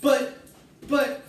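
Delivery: high, loud sputtering buts; stammering shriek. A narrator's reading. Missus Salt sputtering at Wonka, high loud shriek. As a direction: sputter in panic. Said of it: "shrieked Missus Salt".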